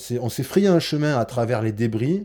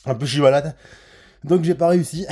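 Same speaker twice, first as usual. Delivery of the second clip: out of breath; 3 semitones higher than usual. Real, not acted. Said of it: "ah, j'en peux plus".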